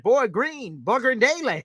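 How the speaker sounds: high, lightly voiced caller; imitating Hep. Hep imitated with a high, light voice. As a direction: rattle off names like Hep. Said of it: "He's like".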